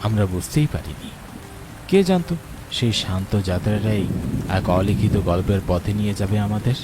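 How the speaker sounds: calm, measured storyteller voice; wistful story narration over music. A narrator's reading. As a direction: set the scene like a radio drama narrator.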